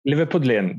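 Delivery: Liverpudlian said clearly as liver-PUD-lian; correct pronunciation. Shown as a demonstration. Correcting the co-host, saying Liverpudlian as liver-PUD-lian. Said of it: "That's how you say it".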